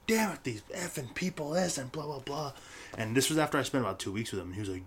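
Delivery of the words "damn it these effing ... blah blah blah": imitating his own annoyed outburst; half-hearted retold rant; mock angry rant. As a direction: pitch jumps high on the curse then trails off. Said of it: "I got pissed off".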